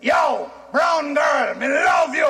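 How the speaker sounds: put-on shouting a Jamaican pickup line at a girl; Jamaican chat-up shout. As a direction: bellow it like a brash Jamaican lover. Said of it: "That can't work in Jamaica".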